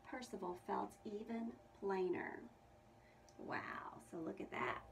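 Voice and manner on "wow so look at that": awed whisper. Real, not acted. Marvels at picture quietly.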